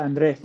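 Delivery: Andre with the stress on its last syllable; accent at the end. Shown as a demonstration. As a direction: say Andre as an-DREH. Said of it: "with an accent at the, at the end".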